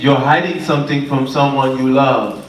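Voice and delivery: slow, put-on Jamaican psychic accent; drawn-out mock Jamaican delivery. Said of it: "The accent over there".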